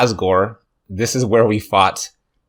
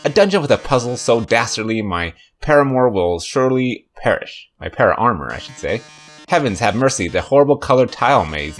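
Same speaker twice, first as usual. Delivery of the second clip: theatrical host voice. Acted. Voicing Mettaton's dramatic host.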